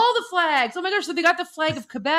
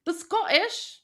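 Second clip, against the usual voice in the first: badly faked Scottish accent; terrible Scottish accent; 3 semitones higher, 4 dB quieter, slower than usual. Trying out Scottish for a co-host, terrible Scottish accent. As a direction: have a poor stab at a Scottish accent. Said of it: "That's a terrible accent".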